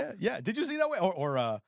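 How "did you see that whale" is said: high, put-on animal voice; high-pitched sea lion imitation; talking sea lion. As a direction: echo it in a high dubbed-pet voice. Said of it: "his video being the sea lion".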